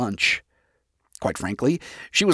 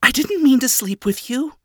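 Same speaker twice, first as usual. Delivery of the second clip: high-voiced, embarrassed rush to explain; flustered apology; 12 semitones higher than usual. A narrator's reading. Flustered apology, slip of the tongue.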